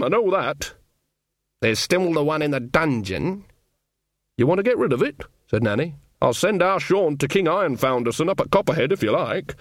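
a hint of a chatty old countrywoman, eager; cheerful old witch offering help, lightly done; lightly voiced old witch. Nanny Ogg offering to send word, lightly voiced old witch.

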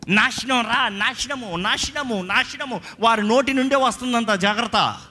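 high, urgent pulpit warning; impassioned, insistent preacher; preaching at full force. Real, not acted.

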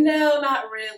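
put-on coy Southern accent; Jolene. Jolene asked about other Texas women, Southern accent. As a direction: play the vain Texas belle, Southern accent. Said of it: "with this Southern accent".

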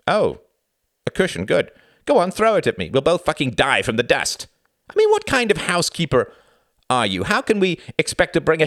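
high, loud sarcastic tirade; angry taunting. Acted. Husband taunts wife about her housekeeping, angry. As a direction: goad her with mounting contempt.

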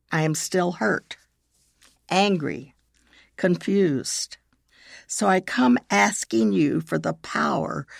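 measured, with long pauses between phrases; slow prayer reading. Shown as a demonstration. Leading listeners in a prayer of forgiveness, slowly. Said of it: "I will read it slowly".

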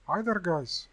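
loud, high chirpy greeting; twittering computer. A narrator's reading. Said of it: "twittered the computer".

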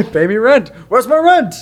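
high demanding landlord. Pretend. Imitating the landlord demanding rent.

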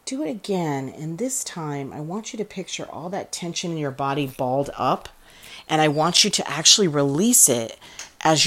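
deliberate, emphatic meditation coaching; measured phrases with breathing pauses; guided breathing exercise. Acted. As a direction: coach listeners through releasing tension.

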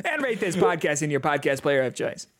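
lightly put-on stand-up cadence; John Mulaney. Podcaster asks for ratings, light comedian impression. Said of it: "I'm doing the John Mulaney voice".

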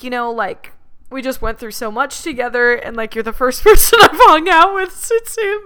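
hammed-up heartbroken rant. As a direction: overact the heartbreak to scare him off. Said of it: "going on this rant".

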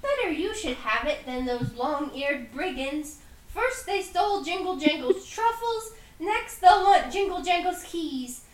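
lightly voiced goblin griping about thieves; grumbling goblin. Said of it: "and says".

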